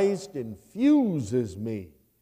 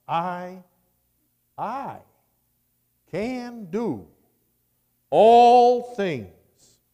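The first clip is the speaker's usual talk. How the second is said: triumphant proclamation; 9 semitones higher, 9 dB louder, much slower than usual. Acted. Preacher quoting the Word triumphantly.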